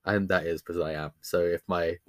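bunged up, blocked nose voice; stuffy nose. Real, not acted. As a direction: talk through a stuffy nose. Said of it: "I may sound bunged up".

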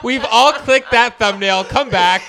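excited. Real, not acted. Laughing teasing challenge.

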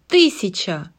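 shouting. Acted. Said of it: "крикнула".

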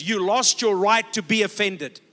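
loud preached declaration. Shown as a demonstration. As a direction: proclaim it to the whole room, "your" hit hard. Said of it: "Let me say that again".

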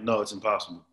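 deadpan retold dismissal; matter-of-fact. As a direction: state it as plain fact, no concern. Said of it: "Like, just matter of fact".

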